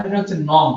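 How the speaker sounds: নং said as nong, ending in a nasal ng; correct pronunciation. Shown as a demonstration. Teacher correcting the class, নং spoken as nong. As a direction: say নং with a clear final ng, not noy. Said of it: "এর উচ্চারণটা হচ্ছে নং".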